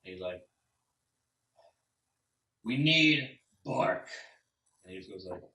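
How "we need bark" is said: very slow, louder, higher blunt bear voice; insistent bear. Acted. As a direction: plant each word like a heavy paw.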